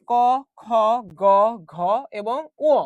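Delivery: ক, খ, গ, ঘ, ও read slow with a pause after each; reciting letters. Shown as a demonstration. Teacher reads the first row of letters out slowly. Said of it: "প্রথমে আসি প্রথম অংশটা".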